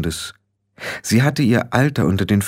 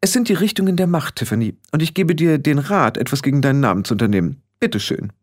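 put-on haughty young witch leader; 5 semitones higher, faster than usual. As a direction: lecture the newcomer from on high.

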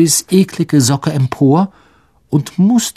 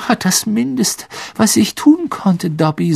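higher, light reply with a grin; a touch of amused modesty, pitched up; grinsend; 7 semitones higher than usual. A narrator's reading. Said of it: "sagte Harry grinsend". (leicht grinsend, mit höherer Stimme)

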